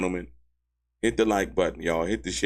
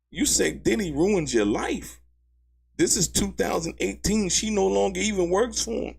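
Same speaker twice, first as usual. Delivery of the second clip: incredulous; 11 semitones higher than usual. Real, not acted. Mocking the testimony in disbelief.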